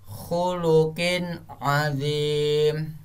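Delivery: "khuluqin azim" slowly recited, short clear N, long final vowel; clear izhar reading. Shown as a demonstration. Teacher reciting second example, "khuluqin azim" slow and clear. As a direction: draw out "khuluqin azim" without humming the N. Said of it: "langsung tanpa dengong".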